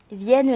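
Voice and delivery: "Vienne" with I and E glided into one syllable; synérèse. Shown as a demonstration. Teacher illustrating synérèse with Apollinaire, "Vienne" with I-E run together. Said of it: "Les deux voyelles I E du mot vienne se prononcent ensemble".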